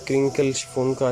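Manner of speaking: normal talking voice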